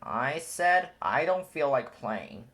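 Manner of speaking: "said" leaned on, slow and firm; insist, pressing on "said"; stress on said. A narrator's reading. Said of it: "Simba answered".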